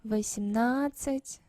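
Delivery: восемнадцать with no d before the ц; silent d. Shown as a demonstration. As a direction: glide from на straight into ц in восемнадцать. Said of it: "no d sound".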